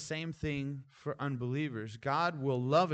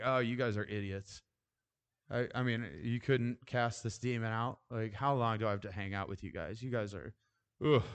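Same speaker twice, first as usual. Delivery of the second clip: exasperated, irritated Jesus; 4 semitones lower than usual. Retold or imitated. Jesus as pastor first pictured him, exasperated and irritated. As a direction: grumble at the hopeless disciples. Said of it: "like, an exasperated Jesus, like, irritated".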